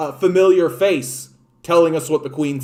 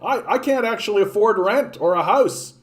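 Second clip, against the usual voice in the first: pleading citizen; 6 semitones higher than usual. Retold or imitated. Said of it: "have people be like".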